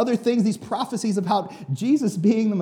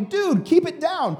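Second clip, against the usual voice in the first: much higher, slow "keep it down"; mock annoyed hush; 10 semitones higher, slower than usual. Crowd member telling the beggar to keep it down, high and slow. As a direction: tell him off in a mocking high voice. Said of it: "shouting match back and forth".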